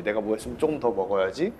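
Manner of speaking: ordinary talk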